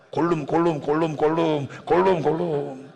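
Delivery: lightly voiced creature chant of its own name; Gollum. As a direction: repeat the name like a creature's call, drawing out the last. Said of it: "마지막에 의성어를 내요". (골룸 흉내로 되뇌는 소리)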